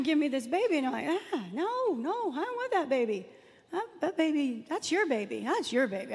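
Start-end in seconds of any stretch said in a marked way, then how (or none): 1.3-6.1 retold recoil, starting high; mock protest pushing it back onto the other person; ugly refusal. Woman retelling how she refused her friend's baby, mock-ugly protest. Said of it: "why was I so ugly about that baby".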